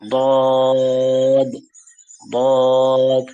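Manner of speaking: দদ thick, tongue side against upper teeth; heavy dad. Shown as a demonstration. Teacher demonstrating the heavy letter. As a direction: say দদ with a full mouth. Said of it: "normal ভাবে দদ না বলে".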